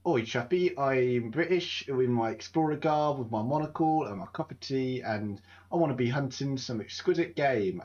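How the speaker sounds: lightly voiced British colonial explorer; a hint of a pompous Brit abroad; posh British explorer. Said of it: "they'd be like".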